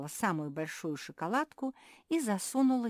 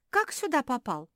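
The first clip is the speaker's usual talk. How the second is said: surprised; 10 semitones higher, 8 dB louder than usual. Acted. Pug amazed at tiny man.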